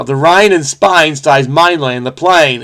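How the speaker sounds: bad Cockney accent, lightly attempted; clumsy mock Cockney with "rain" turned to "Rhine"; Eliza Doolittle. Puzzle solver apologetically imitating a Cockney flower seller, bad Cockney accent. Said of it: "is what Eliza Doolittle would have said".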